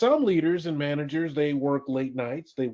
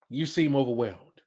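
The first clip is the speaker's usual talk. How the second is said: judgmental; 2 semitones lower than usual. Shown as a demonstration. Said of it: "one sounds judgmental".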